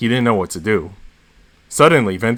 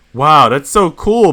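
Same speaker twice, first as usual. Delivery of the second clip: loud, slow, amazed shout; excited yell; 5 semitones higher, 6 dB louder, slower than usual. Acted. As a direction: call it out in wonder. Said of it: "Bennett yells".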